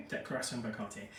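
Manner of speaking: French pronunciation of Declaration and Cartier; name the perfume as if in French; French accent. Shown as a demonstration. Reviewer recaps the perfume's name for viewers, in a French accent. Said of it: "say this in a French accent".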